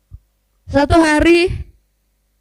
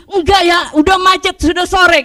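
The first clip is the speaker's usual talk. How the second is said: retold grumble, a touch raised; mock angry husband; 3 semitones higher than usual. Husband refusing to stop for bakso, mildly angry. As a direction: imitate his cross refusal. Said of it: "Lalu dia marah-marah begitu".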